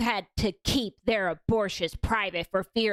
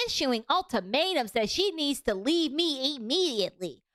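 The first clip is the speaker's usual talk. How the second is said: evil villain voice; 3 semitones higher than usual. Acted. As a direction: read it like a scheming villain. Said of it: "I'm gonna do the evil villain voice".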